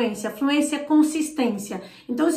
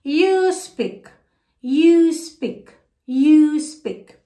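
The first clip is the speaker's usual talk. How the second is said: you speak said louder each time; building repeat drill; 5 dB louder, much slower than usual. Shown as a demonstration. Teacher drills students on you speak, building louder. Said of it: "acompanhe e repita aí comigo".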